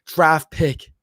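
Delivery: slow, high, stately draft-pick announcement; draft announcer. Acted. Streamer reads a fan's joke as a slow, high draft announcer. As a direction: announce it like the commissioner at the podium. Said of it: "Cyanide says".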